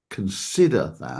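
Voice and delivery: "consider" drawn out slowly; stress on consider. Shown as a demonstration. Speaker stressing people should only consider it, "consider" slow. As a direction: linger on "consider". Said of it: "I emphasize the word consider".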